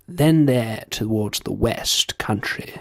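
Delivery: drawn-out posh English accent. Shown as a demonstration. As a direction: say it slowly in upper-class English. Switches from posh demo to own accent.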